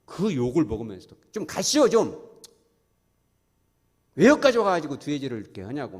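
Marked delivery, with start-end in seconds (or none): 1.3-6.0 angry shout. Retold or imitated. Townsmen yelling at Jesus to leave, angry shout. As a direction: chase him away in a rage. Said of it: "막 그랬을 거 아니겠어요".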